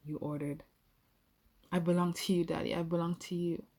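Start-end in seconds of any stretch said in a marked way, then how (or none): 1.7-2.7 a touch of a wail, pushed out louder; mild wail. Acted. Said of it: "I wailed". 2.8-3.7 a faint wail, fading back to the normal level; mild wail. Acted. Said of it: "I wailed".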